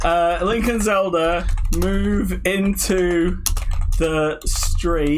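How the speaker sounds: drawn-out words while typing; dictating slowly. Real, not acted. Typing a Coronation Street prompt, slow dictation. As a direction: dictate word by word.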